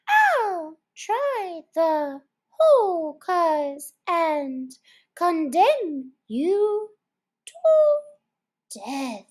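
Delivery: high, slow, gloating sentence; Fury condemning. Acted. Dog condemning the mouse to death, slow. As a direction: rise to a high final death.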